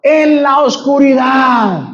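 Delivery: emphatic echo. Acted. Preacher echoes congregation's answer.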